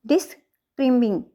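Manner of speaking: "डिस्क्राइबिंग" split after the first syllable, weight on "क्राइ"; second-syllable stress. Shown as a demonstration. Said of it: "second syllable के ऊपर है". ("डिस्क्राइबिंग" में "क्राइ" पर ज़ोर)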